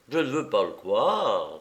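calm, level disbelief; peaceful. Acted. Lupin calmly refuses the bandit's news, peaceful. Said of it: "fit don Louis paisiblement".

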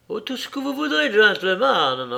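high-pitched, coy and eager to oblige; simpering landlady. A narrator's reading. Stout landlady flirting with a gentleman customer, simpering. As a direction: simper it quickly, then stretch the last word. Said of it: "répondit la forte dame en minaudant".

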